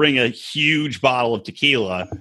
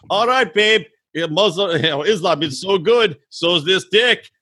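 mock Yazan; 2 semitones higher than usual. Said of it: "Yazan's like".

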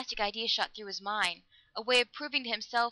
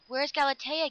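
higher, urgent question; gasped; 6 semitones higher, 4 dB louder than usual. A narrator's reading. Lover arriving too late at the portal, gasping. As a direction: demand it with a touch of alarm. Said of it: "gasped Dan".

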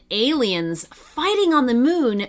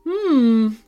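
thoughtful hum; 4 dB louder than usual. Acted. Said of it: "mused Nash".

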